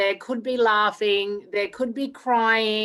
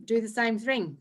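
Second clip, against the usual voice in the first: usual speaking voice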